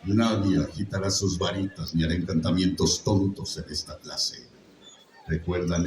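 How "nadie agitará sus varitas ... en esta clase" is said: slightly plummy, throaty teacher; a hint of Snape, cold and fading to a breath; low measured sneer. Shown as a demonstration. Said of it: "por eso dice".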